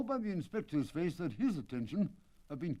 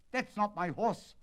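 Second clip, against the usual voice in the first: raised, higher protest; cried out; 6 semitones higher, 3 dB louder than usual. Acted. The owner crying out to Holmes at the wrong horse, raised. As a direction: call it out in dismay. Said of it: "cried the owner".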